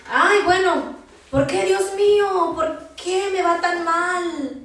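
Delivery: lamento quejumbroso, más agudo y más fuerte, lento; queja lastimera. Retold or imitated. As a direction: quejarse a Dios con tono de reproche. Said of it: "Muchas veces decimos". (imitando a un creyente que se queja a Dios, más agudo y lento)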